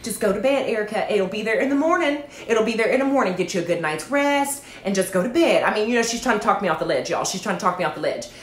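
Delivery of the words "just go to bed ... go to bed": lightly voiced soothing Southern mama. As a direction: talk her down like a Southern mama, softer at first. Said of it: "like, Southern mama".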